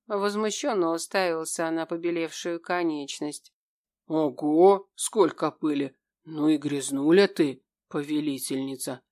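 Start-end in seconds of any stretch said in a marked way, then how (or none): 4.1-9.0 demon voice. A narrator's reading. Demon scolds his mistress for the dust, teasing.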